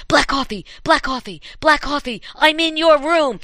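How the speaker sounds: high, urgent ghostly call. Acted. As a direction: pitch it up, closing in. Ghost voice building.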